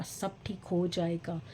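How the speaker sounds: slow, drawn-out words of hope; slow self-reassurance. Real, not acted. Vlogger reassuring herself all will be fine, slow self-reassurance. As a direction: stretch each word to convince yourself. Repeats the reassurance, slower, voiced.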